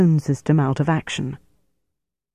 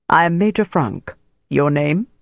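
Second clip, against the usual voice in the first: tone of authority. Acted. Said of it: "regained his habitual tone of authority".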